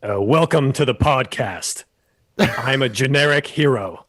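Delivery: light attempt at a Dennis Quaid accent; half-hearted Dennis Quaid accent, barely shifted. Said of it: "do it in the accent ... Dennis Quaid".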